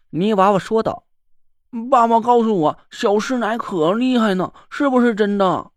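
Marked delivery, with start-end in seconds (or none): 1.9-5.7 too calm creepy doll. Acted. Mud doll child asks.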